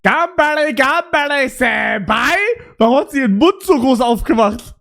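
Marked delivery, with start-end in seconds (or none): 0.0-2.3 excited anime fan. Retold or imitated. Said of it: "Sie sagt".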